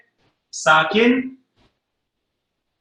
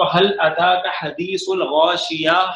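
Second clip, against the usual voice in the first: Quran recitation; slower than usual. Shown as a demonstration. Teacher reciting the verse to students, slow chanted recitation. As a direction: recite it slowly like tajweed practice. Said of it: "جیسے ہم پڑھتے ہیں تو".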